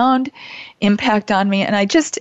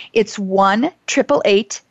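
slow and clear; slower than usual. Real, not acted. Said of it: "Again, that's one eight eight eight".

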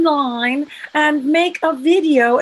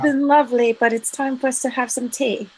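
put-on English accent. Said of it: "you're supposed to do the English accent".

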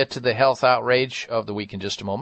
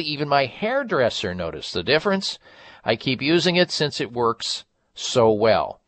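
hard sell ad. Acted. Host reads a Provia ad.

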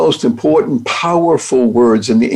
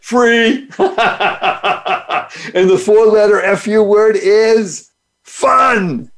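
laughing through the punchline, slow; 6 semitones higher, much slower than usual. Real, not acted. Host reveals his F U word is fun, laughing slowly. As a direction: let the joke land, laughing and slowing.

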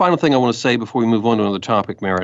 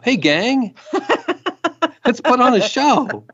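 high, hammed-up hype voice with a laugh; wrestling promo; 14 semitones higher, slower than usual. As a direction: belt it like an over-the-top promo. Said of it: "cut a promo".

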